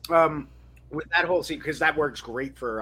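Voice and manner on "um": talking around ice; words round a mouthful of ice; chewing while talking. Real, not acted. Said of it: "Sorry, I'm chewing some ice".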